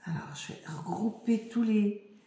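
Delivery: whispered aside to herself. Real, not acted. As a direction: whisper while sorting. Range en chuchotant. (aparté chuchoté)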